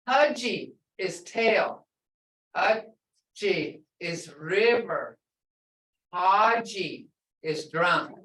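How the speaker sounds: Haji said slowly with a different tone each time; haji three tones. Shown as a demonstration. Teacher compares tail, river and drunk slowly. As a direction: draw out each Haji so the tones are clear. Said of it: "It's short and blunt".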